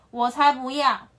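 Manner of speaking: a loud huffy no; flat refusal. Acted. The antelope refusing the lion's flowers, huffy. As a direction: throw the refusal back at him. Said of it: "羚羊说".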